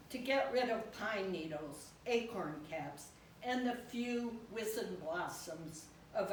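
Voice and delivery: measured poem recital, pausing after each phrase; poetry reading. Acted. Poet to an audience about a dusk walk with the dog, poetry reading. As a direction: read it as a poem, line by line.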